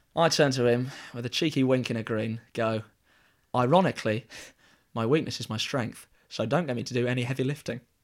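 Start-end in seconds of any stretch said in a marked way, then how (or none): none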